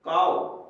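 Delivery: "काव" loud, with an open aa gliding to o; model pronunciation. Shown as a demonstration. Teacher shows the aao sound in cow, model pronunciation. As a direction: glide firmly through the vowel of "काव". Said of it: "इसको क्या बोलेंगे?".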